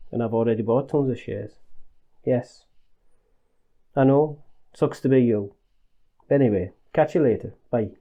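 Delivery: put-on Northern English accent, lightly done; terrible accent. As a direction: fake a broad Northern English phone voice. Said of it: "apologies for the terrible accent".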